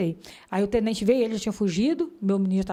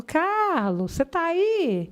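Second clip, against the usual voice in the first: calm voice; 7 semitones higher, much slower than usual. Retold or imitated. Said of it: "aquela voz tranquila".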